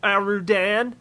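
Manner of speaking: high, slow, stammering whimper; timid gnome whimpering out a halting reply. A narrator's reading. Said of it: "whimpered Toodlin".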